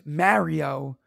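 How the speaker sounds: "Mario" with the a of "marry"; own regional pronunciation. Shown as a demonstration. Contested pronunciation of Mario, his way.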